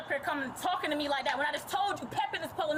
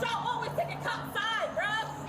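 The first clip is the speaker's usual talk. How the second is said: furious, raised voice at the cops; angry shouting; 3 semitones higher than usual. Real, not acted. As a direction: yell it in frustration. Heated argument with police.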